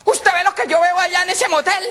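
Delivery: put-on high, loud girlish call to friend; young woman's voice. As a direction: gasp it out like a gossiping girl. Girl voiced in joke.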